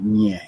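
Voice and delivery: ÑE said as "nyeh"; ñ sound. Shown as a demonstration. Teacher isolating the Spanish letter, ÑE as a slow "nyeh". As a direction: draw out the "ny" of ÑE. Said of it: "you got that ñe sound".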